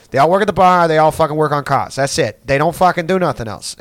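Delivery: put-on loud, high Boston accent rant; hammed-up heated Boston townie arguing; heated Boston guy. Boston guy arguing with Native American about poverty, heated Boston accent. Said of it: "it was getting heated".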